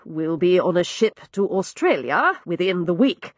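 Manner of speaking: low, dry hint of menace; a gentleman's grim joke; dark humour. Lord Rodney promising to ship his brother off. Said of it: "an undertone of dark humour in his voice".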